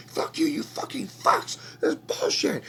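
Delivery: high, unvoiced crying whisper; sobbing whisper. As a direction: break down into whispered sobs. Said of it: "goes ballistic".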